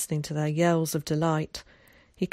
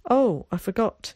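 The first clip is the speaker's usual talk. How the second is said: louder, higher sudden recollection; 5 semitones higher, 5 dB louder than usual. A narrator's reading. Visiting boy remembers more news, suddenly. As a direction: burst out as it comes back. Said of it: "he said suddenly".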